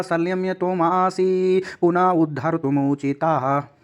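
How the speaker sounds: measured verse chant; Sanskrit recitation. Shown as a demonstration. Teacher reciting the next Sanskrit verse, measured chant. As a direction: recite the next shloka steadily.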